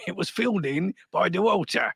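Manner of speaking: mock-English copper with a chuckle; lightly played English bobby; Monty Python-style English accent; old-school English policeman. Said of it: "some old school English dude".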